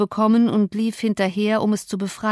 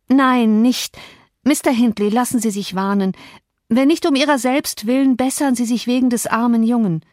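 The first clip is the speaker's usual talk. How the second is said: urgent pleading; 5 semitones higher than usual. Acted. Ellen begs him not to drink.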